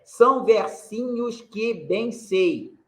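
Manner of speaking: "São versinhos que bem sei" very slow, syllables apart; scanning syllables. Shown as a demonstration. Teacher scanning the third verse, slow and deliberate. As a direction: count the syllables out slowly. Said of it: "É".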